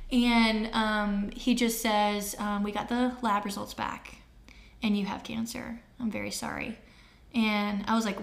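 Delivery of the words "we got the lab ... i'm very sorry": imitating a doctor softly delivering bad news; breaking bad news. Doctor tells couple the cancer results, subdued.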